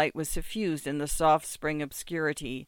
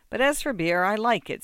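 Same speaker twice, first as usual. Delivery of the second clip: higher and louder declaration; loudly; 5 semitones higher, 5 dB louder than usual. Acted. Muzhik announcing his love of beer, loudly. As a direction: announce it loud. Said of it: "said the muzhik loudly".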